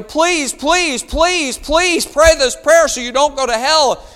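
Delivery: high, loud mock pleading; desperate begging. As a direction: act out begging someone, each please pushed out. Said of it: "If you're begging somebody".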